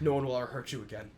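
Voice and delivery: calm a scared friend gently; reassuring. Retold or imitated. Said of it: "and he's like".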